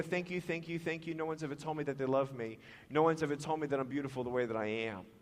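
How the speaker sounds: soft, low and hurried, imitating a whisper; retold whisper. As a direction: murmur it quickly as into an ear. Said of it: "she whispered in my ear".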